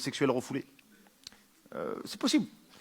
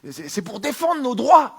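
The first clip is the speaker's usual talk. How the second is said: camp voice; 8 semitones higher, 7 dB louder, slower than usual. Acted. Pride marcher answering.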